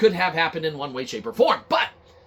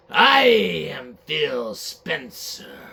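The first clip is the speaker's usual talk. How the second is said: slow, drawn-out boss announcement; lightly voiced Phil Spencer, very slow; Phil Spencer impression; much slower than usual. Gamer podcaster acting out Phil Spencer in his office, slow and self-important. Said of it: "We're gonna do a little reenactment".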